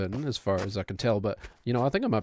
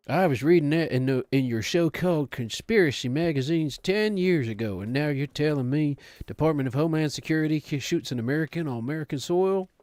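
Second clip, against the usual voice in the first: put-on Southern accent; 3 semitones higher than usual. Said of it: "racist Southern accent".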